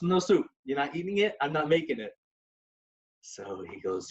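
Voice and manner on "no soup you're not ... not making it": wife refusing. Retold or imitated. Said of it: "she goes".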